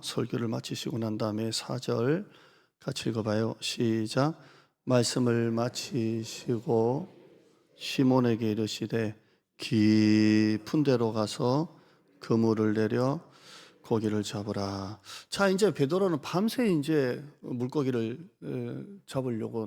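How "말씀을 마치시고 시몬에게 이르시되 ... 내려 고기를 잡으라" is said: slow, weighty reading of the verse; scripture reading. Acted. Pastor reading the verse to the congregation, slow and solemn. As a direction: read the Bible line slowly and solemnly.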